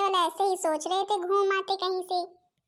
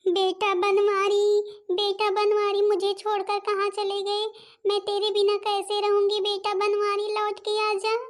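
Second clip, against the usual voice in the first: wailing lament; 3 semitones higher than usual. Acted. Mother wails for dead son.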